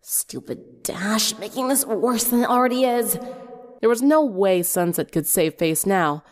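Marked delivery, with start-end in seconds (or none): 0.0-3.2 grumbling. Acted. Sunset grumbling to herself.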